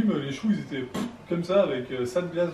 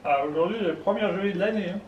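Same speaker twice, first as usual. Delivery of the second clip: put-on old man voice; 2 semitones higher than usual. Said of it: "J'ai l'impression de parler comme un vieux".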